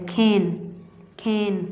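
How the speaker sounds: खेन with a long "ay" vowel; long A sound. Shown as a demonstration. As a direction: hold the vowel in खेन, repeated after a pause. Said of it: "इसकी आवाज़ लंबी आती है".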